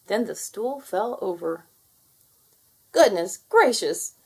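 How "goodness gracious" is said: slow, loud exclamation; storyteller gasping at the mishap; astonished. A narrator's reading. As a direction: exclaim it in shock. Narrator exclaims at the fall.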